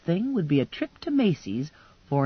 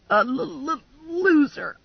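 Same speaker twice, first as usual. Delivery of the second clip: tearful stammer; 8 semitones higher than usual. A narrator's reading. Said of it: "I'm hysterical".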